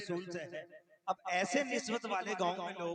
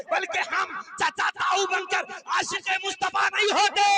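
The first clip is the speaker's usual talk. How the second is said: loud, high fiery sermon shout; preaching at full force; 9 semitones higher, 11 dB louder than usual. Acted. Preacher rousing the gathering to full-voiced fervor. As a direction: thunder the love of the Prophet to the crowd.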